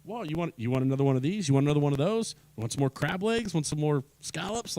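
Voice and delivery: sing-song cash register ching up high, then pushy upsell; a beaming bar owner ringing up the bill; eager bar owner. Retold or imitated. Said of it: "when the bar owner is just go".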